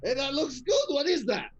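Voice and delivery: hammed-up French accent; creeping French accent. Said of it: "Now I'm becoming French".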